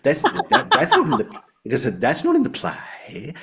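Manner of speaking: very high, loud mock protest; Andrew Davidson. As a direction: squeal the objection like the exasperated tutor. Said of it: "one time he genuinely did this".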